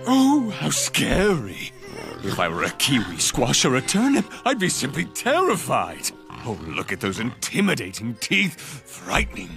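mock fear, dripping with sarcasm; villain mocking the lion's teeth; sarcastic mockery. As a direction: sneer as if terrified. Villain mocks lion's threat.

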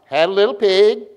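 rising inflection, emphatic. Shown as a demonstration. Preacher retrying poem after weak response, emphatic rising inflection. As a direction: lift "pig" firmly for the class to follow. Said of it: "my voice goes up, y'all go up".

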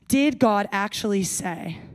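slow, sly "Did God actually say"; seed doubt slowly. Acted. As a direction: serpent questioning God to Eve. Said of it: "Do you hear the sarcasm?".

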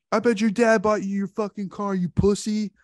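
mock taunt, pitched high; Matt Smith taunting. Jock taunting a guy over a wisecrack, high mock sneer. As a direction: sneer it up high and a bit loud. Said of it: "he's like".

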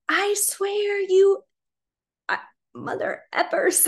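slow, high mock threat; very upset. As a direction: imitate a furious man starting to swear at kids. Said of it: "he was very upset".

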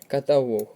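Каталог stressed on final ЛОГ; stress on third syllable. Shown as a demonstration. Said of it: "наголос на третій склад".

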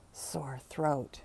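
soft rasped whisper. Acted. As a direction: hush it, sickly. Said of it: "she whispered".

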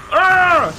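drawn-out excited growl; growled yell. Real, not acted. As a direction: let out a high "arrgh". Reacting to the fight on screen.

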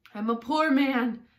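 anxious, insistent appeal; pleading Hatter. A narrator's reading.

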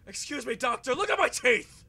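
loud, high mocking monster voice; mock monster line. Gamer mocking the monster that jumped out, hammed-up voice. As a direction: ham up the monster showing its teeth. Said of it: "He's like".

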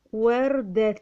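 وردة sounded out in two deliberate parts; careful word demonstration. Shown as a demonstration. Teacher sounding out وردة for learners, careful. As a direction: sound out وردة distinctly, stretching it. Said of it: "عايزين نخليها بالتنوين".

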